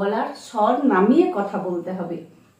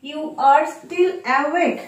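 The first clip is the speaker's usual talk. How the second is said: slow; 4 semitones higher, much slower than usual. Shown as a demonstration. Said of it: "awake মানে হলো জেগে থাকা".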